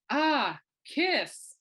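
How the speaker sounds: high, loud, delighted exclamation; gushing fan's drawn-out "Ah"; excited doctor. Retold or imitated. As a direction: imitate a doctor thrilled by the shirt. Doctor spots the band shirt.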